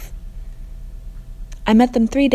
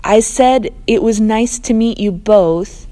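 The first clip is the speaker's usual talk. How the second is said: louder, slow call; raised voice; 3 semitones higher, 5 dB louder, slower than usual. Acted. Narrator saying goodbye over the rain, raised. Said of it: "I raise my voice".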